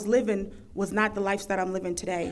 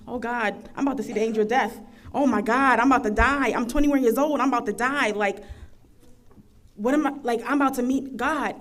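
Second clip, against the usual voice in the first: retold panic. Alone in her mother's living room, panicked, sure she is dying. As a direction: relive the terror of dying in a rush. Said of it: "I'm just looking like".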